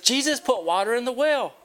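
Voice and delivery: high, loud joyful announcement; excited little girl. Acted. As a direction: shout the good news, thrilled. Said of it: "So she got really excited".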